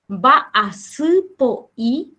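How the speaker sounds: va a su po i stretched out slowly; slow, clear second take of va a su po i; slowed repeat. Shown as a demonstration.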